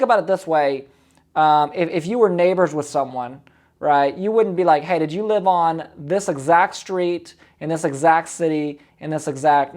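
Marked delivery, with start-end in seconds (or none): 4.8-9.8 slow, over-exact and stiff; too formal. Shown as a demonstration. Coach showing the wrong way to open, slow and stiff. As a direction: spell it all out like reading a file. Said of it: "no, no, no".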